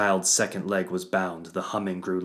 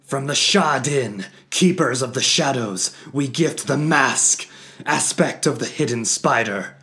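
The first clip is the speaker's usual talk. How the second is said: much higher, louder, rising to a cry; 7 semitones higher, 10 dB louder than usual. Acted. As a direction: cry it out in ritual fervor. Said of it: "he cried out".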